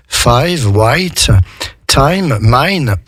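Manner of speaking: five, white, time, mine drawn out on "eye"; slow English five, white, time, mine, word by word. Shown as a demonstration. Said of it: "le I va se prononcer I".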